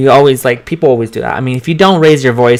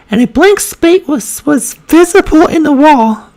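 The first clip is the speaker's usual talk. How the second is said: very high feminine reading voice; 14 semitones higher than usual. Shown as a demonstration. Reading a passage for voice practice, high feminine voice. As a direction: read aloud, holding the pitch way up. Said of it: "You should read in that voice".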